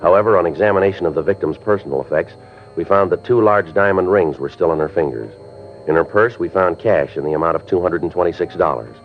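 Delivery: dry, even police report narration; matter-of-fact crime narration; detective narration. A narrator's reading. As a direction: report the facts coolly over the music. Detective narrates investigation over music.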